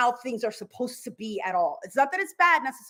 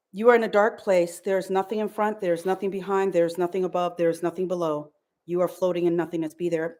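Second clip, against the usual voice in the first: guided meditation; 4 semitones lower than usual. Acted. Repeats the trance induction.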